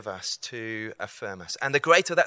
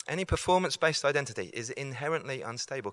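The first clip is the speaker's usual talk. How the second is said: faster repeat, punching performance-based; quick emphatic repeat; faster than usual. Shown as a demonstration. Preacher repeating the key line faster for emphasis. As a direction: drive the point home. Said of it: "Can you see that?".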